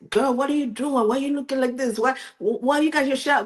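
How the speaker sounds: a hint of shocked girlfriends asking what's wrong; retold friends' texts. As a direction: friends teasing her for the shower cap, mock disbelief. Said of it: "people I know were sending me private text".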